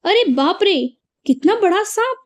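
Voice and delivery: exclaiming as if spotting a big snake; startled surprise. Shown as a demonstration. Teacher demonstrating an exclamation to students, startled. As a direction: gasp it out, pitch jumping high on the snake. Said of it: "अभी यहाँ पे वाक्य में देखिए".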